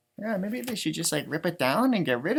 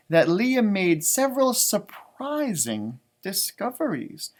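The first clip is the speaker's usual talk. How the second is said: measured picture-book reading; storybook reading voice; story narration; slower than usual. A narrator's reading. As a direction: read it out to children, unhurried. Reads the book aloud.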